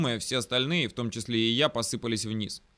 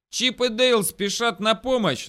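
high, loud, stretched battle cry; gleeful yell; 9 semitones higher, 5 dB louder, slower than usual. A narrator's reading. Brothers charging to the rescue, gleeful yelling. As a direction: holler it like a cartoon catchphrase. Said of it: "заорали братья".

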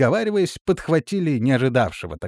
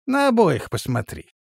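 shouted; 6 semitones higher than usual. A narrator's reading. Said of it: "крикнул".

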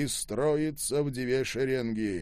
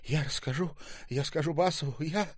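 hoarse threat; 5 semitones higher than usual. A narrator's reading. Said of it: "хрипела Ольга".

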